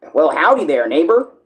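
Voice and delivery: put-on cartoon character voice. Showing how a cartoon neighbor sounds: Ned Flanders voice. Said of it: "Flanders, he sounds like".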